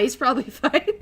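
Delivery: laughing dismissive roommate. Retold or imitated. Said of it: "And he'd be like".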